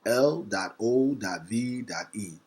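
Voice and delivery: each letter "L dot O dot V dot E" spaced and deliberate; deliberate letter-by-letter spelling; spelled out slowly. Shown as a demonstration. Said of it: "I'm talking about L O V E".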